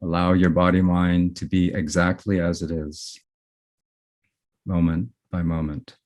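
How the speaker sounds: unhurried meditation guiding with long pauses between phrases; guided meditation. Real, not acted. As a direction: guide gently, letting each phrase settle before the next.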